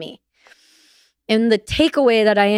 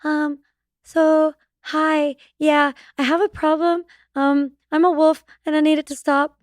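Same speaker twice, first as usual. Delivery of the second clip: sheepish; 7 semitones higher than usual. Retold or imitated. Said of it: "And I'm like".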